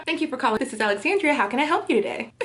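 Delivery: lightly done polite customer service voice; a touch of the call center, helpful and sweet; white voice. Shown as a demonstration. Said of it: "Let me show y'all mine".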